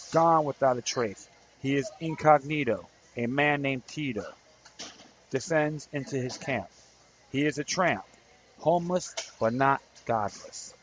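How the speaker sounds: measured, rhythmic poetry recital; poem reading. Acted. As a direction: read it like a spoken-word poem. Reads his poem aloud.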